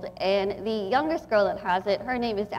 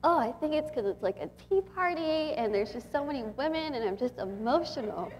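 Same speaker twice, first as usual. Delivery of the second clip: softer, holding back real tears; getting emotional; 4 semitones higher, 5 dB quieter than usual. Real, not acted. Speaking to the Hope Center women, softer and truly emotional. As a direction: let the voice sink as emotion rises. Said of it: "I feel like I'm getting emotional".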